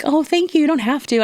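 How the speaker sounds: mock high-pitched polite refusal; flustered thanks. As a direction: squeak out a flustered no-need. Protesting client's lunch offer.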